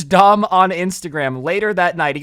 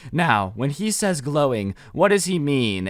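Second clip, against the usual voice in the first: slow, lower and softer mock English teacher; a slow, quieter imitation of a droning English teacher; 4 semitones lower, 5 dB quieter than usual. Mocking an English teacher's class question, slow and soft. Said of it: "Your English teacher is gonna ... be like".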